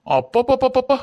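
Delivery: high mocking "appappappa", drawn out in disgust; father mocks his daughter's cheek; exasperated exclamation. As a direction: scoff as if the memory still stings. Father mocking daughter's past words.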